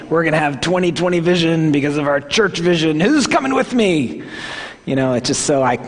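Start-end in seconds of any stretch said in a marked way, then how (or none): 0.1-4.2 mock rallying pastor; hyped vision-caster. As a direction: pump up the crowd, slightly hammed. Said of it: "I'm not that guy".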